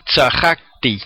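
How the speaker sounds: tzajakti with the second A stressed; tza-JAK-ti, lean on the second a. Shown as a demonstration. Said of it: "En la segunda A".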